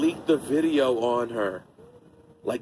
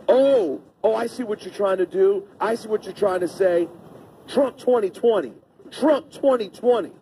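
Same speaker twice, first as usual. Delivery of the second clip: higher, smug mock of the racist man; 6 semitones higher than usual. Retelling the racist man answering the black man, smug mock. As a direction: sneer it out, drawing the slogan out. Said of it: "The guy goes".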